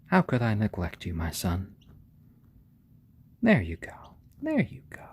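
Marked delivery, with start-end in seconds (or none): 3.4-4.2 hushed There you go; whispered. Real, not acted. Settling the chick down. 4.4-5.0 There you go squeaked very high; cooing. Real, not acted. Settling the chick down.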